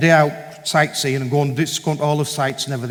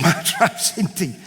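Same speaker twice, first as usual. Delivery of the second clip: slow, laughing echo of her words; laughing reply; 3 semitones higher, slower than usual. Retold or imitated. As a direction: echo it back through a laugh. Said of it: "I said".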